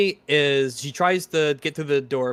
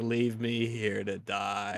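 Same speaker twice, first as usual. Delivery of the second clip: put-on depressive cartoon voice, quieter; 5 semitones lower, 9 dB quieter than usual. Comparing deliveries of a line, mock-depressive Lilo impression. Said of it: "much more like depressive, sad, nihilistic way".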